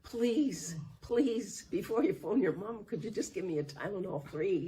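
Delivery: high, quick begging; high strained plea; pleading. Retold or imitated. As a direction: beg him before he calls. Begging for painkiller.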